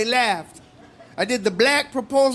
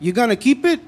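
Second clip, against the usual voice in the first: Latino proposal impression. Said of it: "this is my impression of a Latino proposal".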